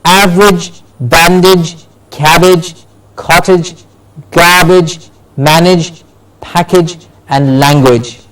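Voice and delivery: spaced word list with every age ending said "ij", as in "average"; "cabbage", "package" and the others ending in a short ij. Shown as a demonstration. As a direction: model each word like "bandage" as BAN-dij. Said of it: "A G E words at the end give you ij".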